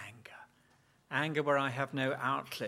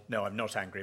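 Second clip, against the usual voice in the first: denying anger angrily; 3 semitones lower, much faster than usual. Retold or imitated. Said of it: "said in such a tone of voice that it indicates that I am angry".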